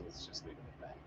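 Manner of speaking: breathy whisper, trailing off; whispered aside. Real, not acted. Cutting off the topic with viewers, whispered aside. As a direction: drop it into a hushed whisper.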